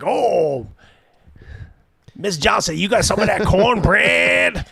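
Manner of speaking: exaggerated Southern drawl, mocking; hammed-up Southern belle accent asking for cornbread; playful Southern accent impression. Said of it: "you pick up a little bit of a Southern accent".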